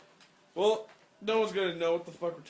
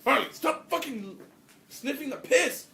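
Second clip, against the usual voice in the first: raised, higher voice at the dog; yelling at the dog; 8 semitones higher, 4 dB louder, slower than usual. Real, not acted. Owner yelling at his dog to stop sniffing. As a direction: call the dog off sharply.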